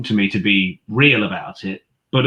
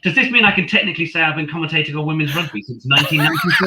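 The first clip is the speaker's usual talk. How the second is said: laughing; 8 semitones higher, faster than usual. Real, not acted. Jokey aside, laughing at herself.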